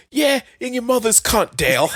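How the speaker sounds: high laughing yell at Dale; drunk shout. Acted. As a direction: hurl it at the stepdad through a laugh.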